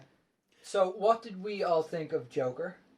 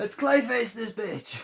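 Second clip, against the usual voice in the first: higher, slow gleeful threat; villain voice; 6 semitones higher, slower than usual. Acted. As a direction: savour the line like a cartoon villain. Clayface voiced in a joke.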